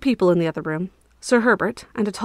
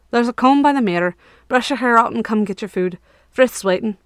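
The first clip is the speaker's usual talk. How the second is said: gruff Herbert; 3 semitones higher, 4 dB louder than usual. Acted. Herbert giving brisk orders.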